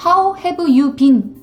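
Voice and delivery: "How have you been?" with every word sounded out in full; slow, separate "How", "have", "you", "been"; careful full pronunciation. Shown as a demonstration. Teacher showing the expected pronunciation, each word said in full. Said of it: "이라고 발음하지 않고".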